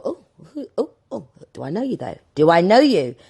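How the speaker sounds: mock indignant. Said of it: "that's my London mentality coming out".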